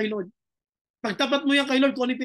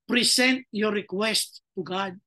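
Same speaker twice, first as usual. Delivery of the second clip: slow emphasis; 3 semitones lower, much slower than usual. Shown as a demonstration. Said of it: "Sabi ni Lord".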